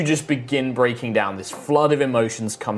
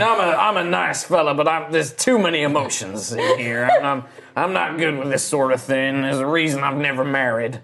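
lightly put-on character voice; flustered put-on voice; uncomfortable fella. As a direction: back away awkwardly from all the emotion. Plays gruff flustered companion.

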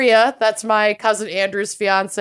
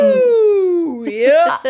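excited cheer; 8 semitones higher, 4 dB louder than usual. Real, not acted. Cheering during show intro.

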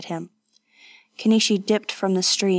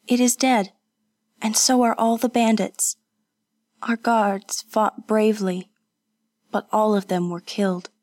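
reassuring Kazuko; 3 semitones higher than usual. Acted. Companion telling the wounded of the battle, reassuring. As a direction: start lifted, ease down toward the end.

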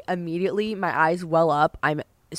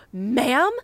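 higher, louder, drawn-out retort; retold flustered comeback; 5 semitones higher, 6 dB louder, much slower than usual. Flustered traveller answering a rude passenger, raised retort. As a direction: act out a flustered reply, stretched at the end. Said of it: "I was so flustered".

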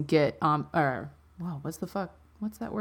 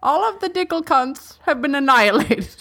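put-on very old man; 3 semitones higher than usual. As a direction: play a frail old professor. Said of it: "Can you be Professor Dicklecunt real quick".

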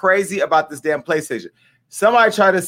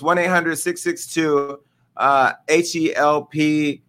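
slow repeat, letters spelled one by one; repeating the hotline for viewers, spelling each letter slowly; slower than usual. Shown as a demonstration. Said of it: "Let me put a number up".

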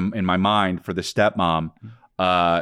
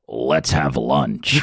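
mock English accent; 5 semitones lower, much slower than usual. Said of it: "I have been working on my English accent".

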